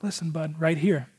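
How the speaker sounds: imitating a calm, sober dad; soft-spoken, controlled address to a child. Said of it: "I've said very calmly".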